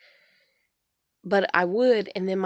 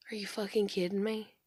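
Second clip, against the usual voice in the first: whispered, incredulous; whispered disbelief; 5 dB quieter than usual. Retold or imitated. To mom about the sister's car, stunned whisper. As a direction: hiss it under breath, stunned.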